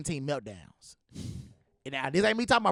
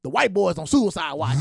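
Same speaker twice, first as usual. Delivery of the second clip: loud announcement; 7 dB louder than usual. Retold or imitated. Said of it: "He said".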